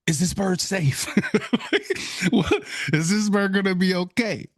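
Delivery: high, anxious questioning; worried for the bird. Retold or imitated. Viewer watching the submerged bird, worried. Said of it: "so many things were going through".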